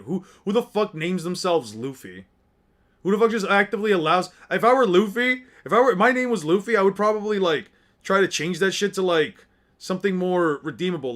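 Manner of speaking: hammed-up indignant rant; mock rant. Real, not acted. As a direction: work yourself up over a silly name. Ranting about the name Luffy.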